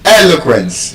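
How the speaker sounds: "eloquence" with E stressed, rest short; first-syllable stress. Shown as a demonstration. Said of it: "first syllable".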